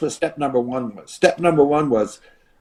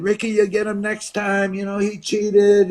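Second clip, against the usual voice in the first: lightly voiced fans, pitched higher; consoling fans; 5 semitones higher than usual. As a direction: imitate fans calling out to their hero. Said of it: "they're saying".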